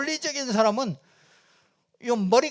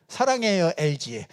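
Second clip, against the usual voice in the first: lightly sung-out commercial tagline; mock LG commercial slogan; 5 semitones lower than usual. Shown as a demonstration. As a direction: read it like a TV ad jingle line. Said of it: "엘지 같은 데죠".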